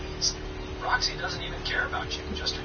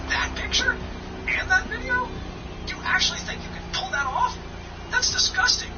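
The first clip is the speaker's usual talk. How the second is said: angry. Pretend. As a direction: explode at him in outrage. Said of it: "I send you the photo and video and you get angry".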